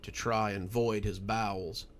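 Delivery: measured storyteller reading a spooky tale; story narration. A narrator's reading. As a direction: draw listeners into the story, unhurried. Reads a spooky story aloud.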